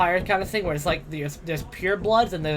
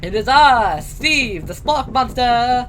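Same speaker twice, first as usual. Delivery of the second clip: booming, slow monster proclamation; monster announcer voice; 5 semitones higher, 9 dB louder, much slower than usual. Acted. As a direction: announce yourself like a grand monster. GM voices monster character entrance.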